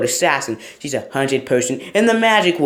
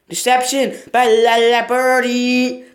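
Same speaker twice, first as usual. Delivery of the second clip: announcer voice; 10 semitones higher, 5 dB louder, slower than usual. Pretend. Announcing title dramatically.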